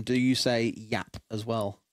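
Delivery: slow, drawn-out question; slowly quizzing a southerner; slow asking. Retold or imitated. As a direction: ask it slowly and carefully. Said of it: "find a southerner and ask them".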